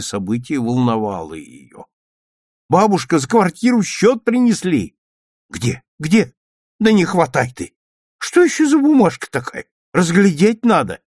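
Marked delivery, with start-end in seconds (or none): 2.7-5.0 calling out. A narrator's reading. Child calling out. 5.5-11.0 higher and louder, flustered; fussing over the paper; flustered grandmother. A narrator's reading.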